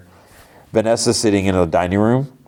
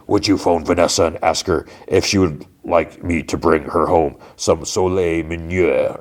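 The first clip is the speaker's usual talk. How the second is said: lightly voiced crime boss; Fisk. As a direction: make a measured request in a slightly put-on voice. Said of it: "Fisk is like".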